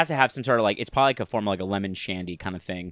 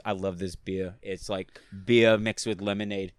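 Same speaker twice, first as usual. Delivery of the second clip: slow, lightly imitated bodybuilder; a hint of the Austrian star, unhurried; Arnold Schwarzenegger; 3 semitones lower, slower than usual. Retelling a fridge tour to a friend, lightly imitated bodybuilder. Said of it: "the way he said it was so funny".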